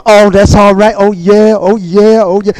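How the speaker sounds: priest's repeated oh-yeahs, lightly acted; shouting priests, imitated. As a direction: play a priest chanting along in approval. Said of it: "some of the priests going".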